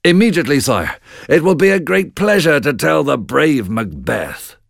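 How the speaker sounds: high, obliging reply to a king; eager loyal messenger. Acted. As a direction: answer your king with high, eager readiness.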